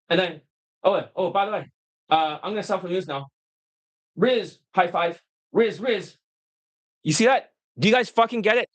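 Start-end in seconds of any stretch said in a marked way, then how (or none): 0.8-6.2 stumbling, choppy pickup patter; choppy talking. Acted. Coach acts out a stressed man talking to women, choppy. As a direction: imitate a man tripping over his approach. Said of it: "like, very choppy".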